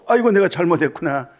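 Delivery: high, loud mock wail on 아이고, dragged out; hammed-up whiny repentance, 아이고 stretched and falling; imitating a self-pitying believer, loud and high; mock wailing lament. Mocking religious people lamenting.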